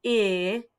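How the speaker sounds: P-I-P spelled letter by letter; spelling it out. Shown as a demonstration. Teacher spelling the word for little readers, letter by letter. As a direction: say each letter of P-I-P separately. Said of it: "We hear the I".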